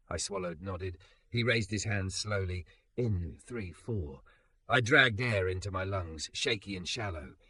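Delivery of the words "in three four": low steady counting. A narrator's reading. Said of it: "his voice counting low and steady".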